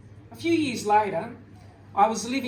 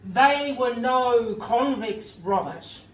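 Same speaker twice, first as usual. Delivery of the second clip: fiery retort; 3 semitones higher, slower than usual. Retold or imitated. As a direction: pronounce it like a mad Old Testament prophet. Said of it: "and he fires up".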